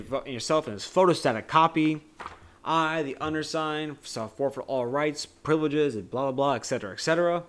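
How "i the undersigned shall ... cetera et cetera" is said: mock shouting. Quoting Wonka's contract reading, higher mock shouting. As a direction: read the fine print in a fury. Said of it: "like, screaming".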